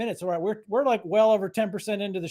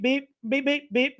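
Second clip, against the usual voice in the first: light, higher beep-beep like a tiny horn; little beeps; 4 semitones higher than usual. Retold or imitated. Mocking a small car horn next to his minivan, little beeps. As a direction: mimic a dinky little horn. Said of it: "it's not a little beep".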